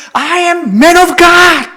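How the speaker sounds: high, loud, defiant proclamation; bold shout. Retold or imitated. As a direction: cry it out as if facing down a lion. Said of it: "그리고 세 번째".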